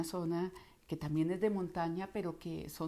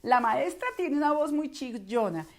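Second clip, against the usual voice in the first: high, loud, shrill teacher voice; piercing, squealed delivery; screechy; 7 semitones higher, 7 dB louder than usual. Shown as a demonstration. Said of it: "su maestra habla muy chillón".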